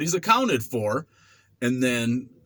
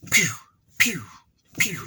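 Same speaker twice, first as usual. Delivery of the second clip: mock jabs; 4 semitones higher than usual. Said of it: "he's all like".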